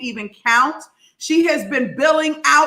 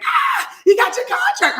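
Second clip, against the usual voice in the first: much higher, delighted shout at "contract"; screaming with joy. Retold or imitated. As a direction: scream the good news back at her. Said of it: "I'm screaming".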